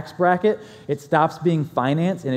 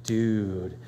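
hushed dude; 6 semitones lower, 6 dB quieter than usual. Retold or imitated. Friend getting serious about a steakhouse, hushed. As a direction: lower and softer, hushed. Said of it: "we've gone from".

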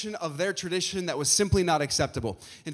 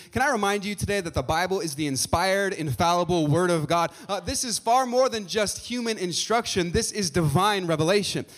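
rising preacher's fervor; 3 semitones higher, 4 dB louder than usual. Real, not acted. Preacher building to a climax.

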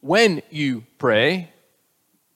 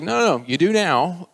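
higher, louder mock insistence; insistent; 4 semitones higher, 5 dB louder than usual. God answering Jeremy's refusal at work, insistent. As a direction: overrule a reluctant listener, lightly acted.

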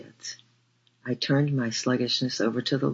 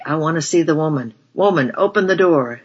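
put-on higher, louder drunk shouting; drunken shout; 5 semitones higher, 8 dB louder than usual. A narrator's reading. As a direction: roar it at the locked door. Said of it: "he yelled back".

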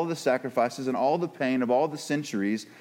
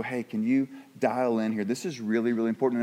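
lower, restrained request for attention; calm parental appeal; 4 semitones lower than usual. Acted. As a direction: ask gently instead of screaming. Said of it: "not have a parent count to three and start screaming, but just go".

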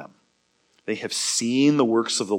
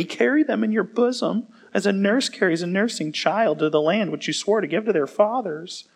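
a touch of whiny complaint in the reading; complaining Moses; 5 semitones higher than usual. Acted. Moses complaining to the Lord, mildly aggrieved. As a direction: read Moses' protest with mild grievance. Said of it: "Moses is really kind of a complainer guy".

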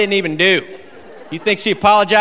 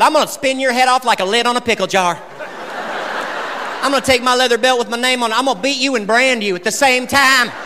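mom's gleeful threats, lightly higher; detailed mom threats; 5 semitones higher than usual. Retold or imitated. Comic imitating his mother's detailed threats, lightly voiced. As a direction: list the punishments with relish. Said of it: "she was detailed".

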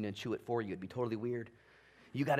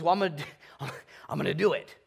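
laughing God voice; 3 dB louder, much faster than usual. Acted. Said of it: "And God says".

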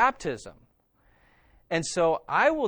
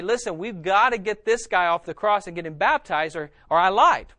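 louder, insistent appeal to a crowd; acted urgent plea; 3 semitones higher, 6 dB louder than usual. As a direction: play at urgently rallying people to act.

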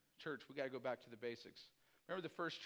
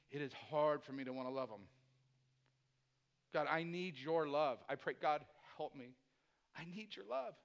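humble confession to God; sincere prayer. Real, not acted.

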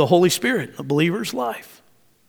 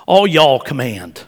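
Southern twang; 3 semitones lower than usual. Shown as a demonstration. Preacher voicing a Texas-born Apostle Paul, Southern twang. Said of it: "he had a good Southern twang about him".

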